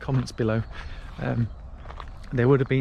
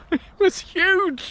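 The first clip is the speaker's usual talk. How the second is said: laughing amazement; much slower than usual. Real, not acted. Reveals deer with a laugh.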